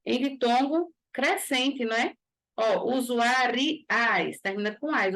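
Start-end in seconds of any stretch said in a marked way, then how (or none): 2.6-4.4 "usuariais" said very slowly, opening the ending sound; slow sound demo. Shown as a demonstration. Teacher showing the class the open diphthong, slowly. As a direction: draw out "usuariais" to let the rising diphthong ring. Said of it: "o som abre".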